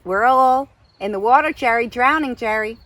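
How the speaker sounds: brash, condescending American caricature; hammed-up American know-it-all; Francine's terrible American accent. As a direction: lecture in a put-on American accent. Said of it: "terrible accent of Francine".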